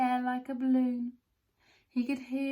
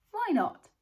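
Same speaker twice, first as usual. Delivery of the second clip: cheery exclamation; 11 semitones higher, 6 dB louder than usual. A narrator's reading. Shopkeeper cheerfully agrees.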